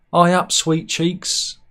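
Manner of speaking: slow, drawn-out mock flirt; flirty woman catcall. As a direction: leer at him slowly from a passing car. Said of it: "she goes".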